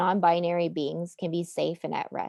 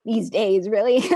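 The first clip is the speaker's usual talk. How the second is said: emotional, voice close to breaking. Real, not acted. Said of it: "Sorry, I'm getting emotional".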